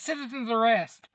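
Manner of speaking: hammed-up second shout; mock shout. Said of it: "he jumps out going".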